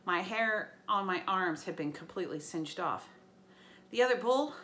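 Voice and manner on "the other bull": anxious question. Acted. Percy asks urgently.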